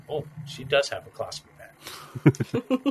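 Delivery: slow, lightly voiced mock plea; impassioned delivery. Imitating the arrested woman's line, slow and impassioned. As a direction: drag the line out like a dramatic arrestee. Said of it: "the way she delivered the line".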